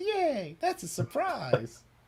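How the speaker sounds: very high, soft, sweet little mouse voice. Voicing a mouse who is happy again: cute mouse voice. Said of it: "turns back to his normal cute self".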